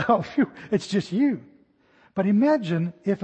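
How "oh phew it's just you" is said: laugh, then a sigh of relief; acted relief. Startled person recognising who it is, relieved. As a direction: breathe out, the scare is over.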